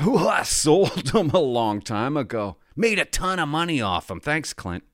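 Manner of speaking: a hint of a breezy teenage boy; imitated teenager. Teenage boy casually answering the man who gave him hockey cards, lightly imitated teenager. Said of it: "He's a teenager".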